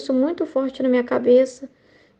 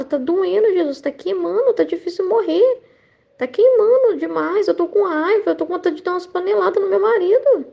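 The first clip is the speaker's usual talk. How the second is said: higher-pitched, agitated complaint to God; retold nervous outpouring; 5 semitones higher than usual. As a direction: re-enact venting your hurt in prayer. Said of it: "eu tava nervosa". (desabafo nervoso recontado, voz aguda)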